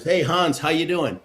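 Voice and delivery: retold cheery call-out; friendly greeting. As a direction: call over to an acquaintance, lightly acted. Calling out a greeting to Germans.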